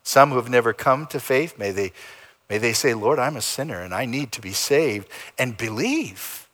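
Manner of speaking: calm, measured pastoral prayer. Real, not acted. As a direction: pray over the congregation. Closing prayer.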